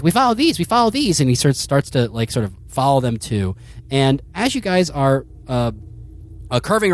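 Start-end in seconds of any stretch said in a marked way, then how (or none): 0.0-1.2 a hint of a higher, louder dog voice; the dog proudly leading on; lightly voiced dog. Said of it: "he's like".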